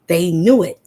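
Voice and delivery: knew hit hard and loud. Real, not acted. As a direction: drive the repeat home with force.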